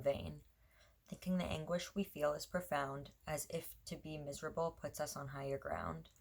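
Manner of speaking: even, measured poetry recital; poem reading. Acted. Poet reading their own poem to viewers, measured recital.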